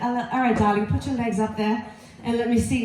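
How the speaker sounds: lightly put-on British accent; British gynecologist. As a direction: play a classy British doctor. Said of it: "she's British".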